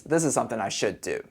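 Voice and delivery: soft unvoiced whisper. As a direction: breathe it out humbly. Paraphrase trails into whisper.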